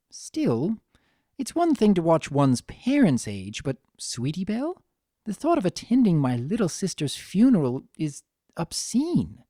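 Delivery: grave reflection, elegant; lightly voiced somber Rarity.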